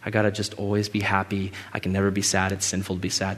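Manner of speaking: mock inner thought. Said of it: "so you didn't leave thinking".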